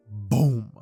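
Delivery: loud, drawn-out spoken explosion; big narrated blast; dramatic boom. A narrator's reading. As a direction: punch out the impact word slowly. Narrated sudden impact.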